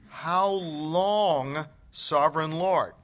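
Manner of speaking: loud calling out. Retold or imitated. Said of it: "They called out in a loud voice".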